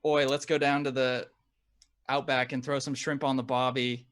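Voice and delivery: slow, hammed-up attempt at an Australian accent. Shown as a demonstration. American trying one sentence for an Australian friend in an imitated Aussie accent. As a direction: put on a broad Aussie accent, drawn out. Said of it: "I'll try one sentence in an Australian accent".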